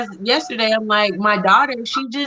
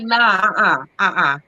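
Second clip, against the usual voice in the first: firm refusal; 3 semitones lower than usual. Retold or imitated. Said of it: "And I'm like".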